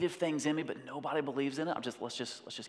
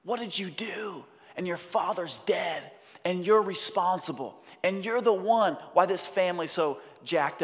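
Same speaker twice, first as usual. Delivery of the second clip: accusing Scar; 4 semitones higher, 4 dB louder than usual. Acted. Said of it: "And he says".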